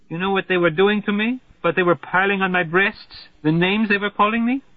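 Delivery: a hint of a frightened lover clinging on; distressed Margarita. Margarita to Slothrop, who left her alone: mildly desperate.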